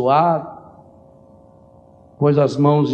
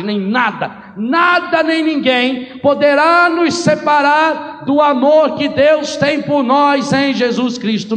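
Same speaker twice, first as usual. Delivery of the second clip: high, loud, shouted preaching that hammers each nada; preaching at full force; 10 semitones higher, 4 dB louder than usual. Acted. Priest assuring the faithful nothing separates them from God, shouting. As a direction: build a fervent climax, nothing can separate you.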